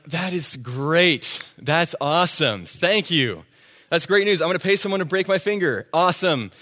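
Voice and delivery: sarcastic. Retold or imitated. Sarcastic reply to doctor.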